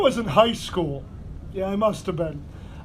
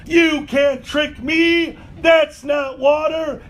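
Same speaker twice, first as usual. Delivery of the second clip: put-on defiant drunk buddy; 3 semitones higher, slower than usual. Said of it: "slaps it away from him as hard as he can".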